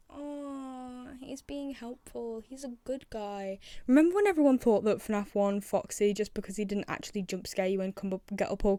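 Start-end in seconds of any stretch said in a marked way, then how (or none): 0.1-3.6 tender coo. Real, not acted. Cooing over the helpful character.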